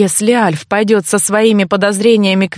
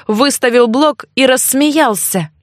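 plain reading voice

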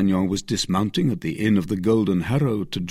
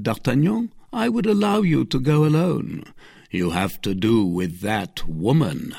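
grave warning with firm emphasis; solemn; 4 semitones higher than usual. Acted. Athos warning D'Artagnan about that woman, solemn. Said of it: "in a tone so solemn".

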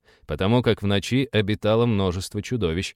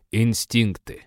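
contemptuous; slower than usual. Acted. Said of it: "с презрением бросил Малефик".

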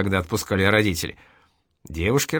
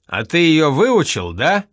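teasing jab; 5 semitones higher, 5 dB louder than usual. A narrator's reading. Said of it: "поддел с печи Ремезов".

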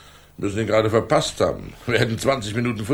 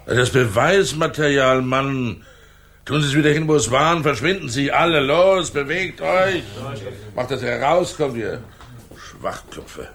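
sharp, raised commanding voice, higher in pitch; angry order; 3 semitones higher, slower than usual. Acted. Inspector throws his officers out of the flat, angry raised orders. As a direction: drive the careless officers out, fed up and barking.

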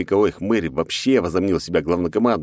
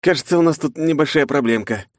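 radio static voice; 8 semitones higher, 3 dB louder than usual. Acted. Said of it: "шуршащий от помех голос".

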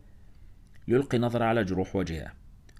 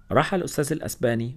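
usual speaking voice

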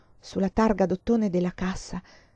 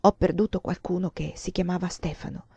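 tearful; 3 dB quieter than usual. Acted. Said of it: "con la voce umida di pianto".

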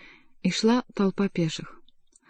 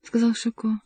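plain reading voice

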